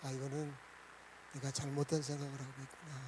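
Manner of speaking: low, soft murmur to oneself; hushed inner voice; dawning realization. Acted. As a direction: think aloud, quietly admitting a mistake. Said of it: "깨달음이 오는 거예요".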